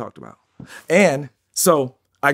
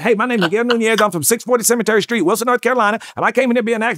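put-on lightly higher, louder Southern country boy introducing himself; 7 semitones higher, 5 dB louder, faster than usual. Newcomer on Skid Row introducing himself, North Carolina country accent. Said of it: "I talked like this when I first got here".

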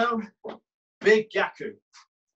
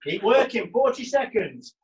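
coach shouting encouragement; 5 semitones higher than usual. Real, not acted. Coach calling time in class.

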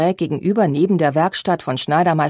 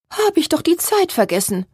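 sighing; 10 semitones higher than usual. A narrator's reading. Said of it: "seufzte sie".

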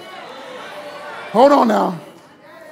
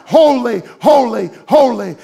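voicing the seraphim's loud cry; a touch of a loud angelic cry; 4 semitones higher, 6 dB louder than usual. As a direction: call holy out like the angels.

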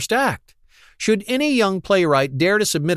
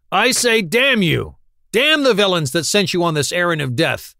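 angry outburst; 3 semitones higher than usual. Acted. Quillery turns on the officers and curses them in fury.

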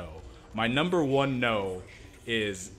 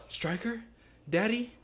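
much higher, whiny questioning; mock whiny Wolverine; 11 semitones higher than usual. Friend retelling X-Men scene, mock whiny Wolverine. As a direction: whimper it like a lost kid. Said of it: "he's like".

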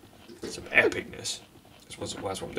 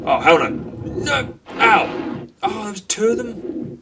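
alarmed shouting; 11 semitones higher, 7 dB louder, slower than usual. Real, not acted. Attacked by creatures.

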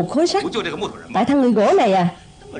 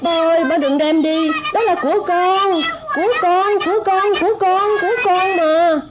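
high, tearful pleading; crying plea; 6 semitones higher than usual. Acted. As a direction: beg through tears to keep it. Child cries for the toy. (trẻ con vừa khóc vừa van nài)

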